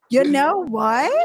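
slow, drawn-out imitation of a friend; imitating her voice. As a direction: copy her catchphrase slowly. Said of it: "Wait, I'll do it like you".

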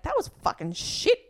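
high mocking quote of a friend; quoting friend. Retold friend's blunt verdict.

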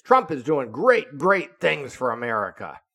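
retold Rick arguing back, worked up; indignant protest. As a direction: push back as if it's obvious. Rick defending Trump, indignant.

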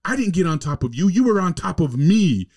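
high and insistent like the wife; mock wife. Retelling the wife explaining to her husband, high and loud.

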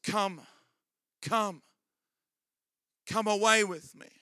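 lightly voiced gentle call of God; tender invitation. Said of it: "he's saying".

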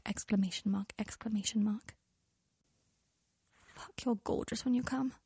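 soft, intimate reading of heated texts; aroused intimate messages. A narrator's reading. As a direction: keep it hushed and yearning.

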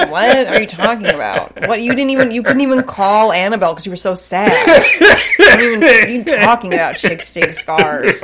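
incredulous questions through laughter; mock the speech while laughing; laughing disbelief. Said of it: "I'm like".

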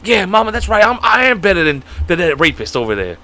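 put-on joking Southern accent as a player's mom; country accent. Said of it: "Why are you giving them country accents?".

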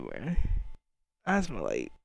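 drawn-out, dazed stoner voice. Retold or imitated. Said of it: "you be like".

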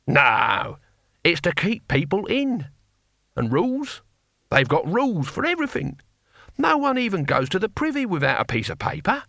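put-on grumbling old barbarian, high-pitched; Cohen. Narrator voices Cohen the barbarian.

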